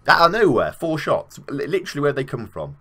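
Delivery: high, loud burst of disbelief; excited outburst. Real, not acted. Gamer stunned by sudden shots, excited outburst. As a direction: blurt it out, high and amazed.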